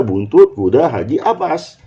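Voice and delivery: "buntut kuda haji, abas" said as one linked unit; four words joined. Shown as a demonstration. Teacher confirming which four attach, closing on "abas". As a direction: run the words together up to "abas", then stop. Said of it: "yang empat ini yang lekat ini".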